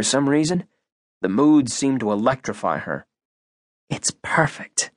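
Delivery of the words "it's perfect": breathy awed whisper, slowed down. Acted. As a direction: breathe it out in wonder. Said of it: "she whispered".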